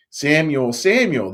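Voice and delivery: loud, lifted name call. Acted. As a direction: call the boy from afar. The voice calls a third time.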